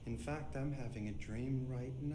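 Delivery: flat, droning monotone. Acted. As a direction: speak in a flat dreamy monotone. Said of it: "that explains the monotone voice".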